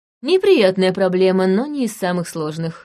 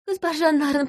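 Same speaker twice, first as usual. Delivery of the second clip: higher still, more urgent second call; desperate plea; 9 semitones higher than usual. Acted. Woman on her knees begs harder, desperate. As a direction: push the plea up a notch, near tears. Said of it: "протянув ко мне руки, проговорила".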